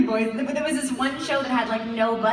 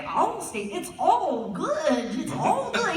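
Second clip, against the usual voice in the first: higher, swooping, over-stretched white-guy read; straining to sound white; 5 semitones higher, much slower than usual. Retold or imitated. Actor retrying the Allstate line, straining to sound very white. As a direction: try too hard, dragging out "all good". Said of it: "really, like, trying to do it".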